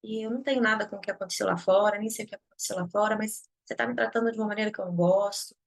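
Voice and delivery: calm loving boundary-setting; calm reply. Retold or imitated. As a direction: answer gently but firmly. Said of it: "Aí eu digo".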